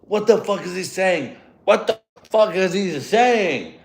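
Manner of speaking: mock bewildered tourist; confused American guy. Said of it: "Mandarin is like".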